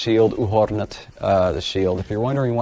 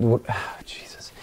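whispered, sighing exasperation; exasperated sigh; 7 dB quieter, slower than usual. Real, not acted. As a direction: sigh it out under your breath, fed up. Frustrated at stumbling over the word.

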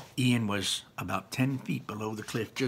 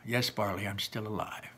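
softer, grudging admission; 7 dB quieter than usual. Acted. Ian grudgingly admitting to Barley, softly. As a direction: mutter the concession.

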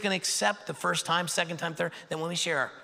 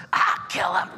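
mob cry; 5 dB louder, slower than usual. Acted. Angry mob screaming.

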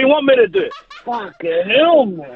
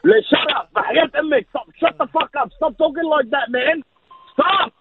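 higher, shut it down; exasperated pleading; 6 semitones higher than usual. Real, not acted. Husband telling his wife to stop teasing, exasperated higher. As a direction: beg her to stop, half laughing.

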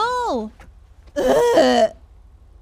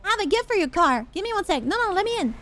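cheeky; 3 semitones higher, faster than usual. Acted. Pushy gift offer to stranger.

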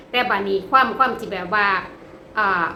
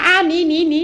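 laughing; 7 semitones higher than usual. Real, not acted. Laughing while teasing husband.

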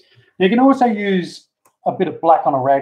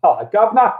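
higher mock-English accent, lifting at the end; Pommy accent; 5 semitones higher, 3 dB louder than usual. Shown as a demonstration. Vlogger trying the Governor greeting for viewers, Pommy accent. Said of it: "I've even got a Pommy accent".

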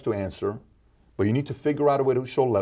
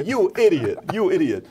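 raised, loud silent-cursing voice; mock inner rage; 8 semitones higher, 4 dB louder than usual. Host voices his inner anger at Antonio Brown, loud and high. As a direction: fume at him inside your head. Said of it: "It's just a parody".

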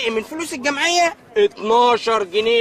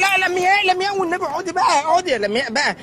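pleading; 8 semitones higher, 3 dB louder than usual. Acted. Begging girlfriend not to leave.

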